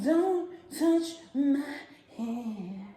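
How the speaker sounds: quoting Solange. Retold or imitated. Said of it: "She was like".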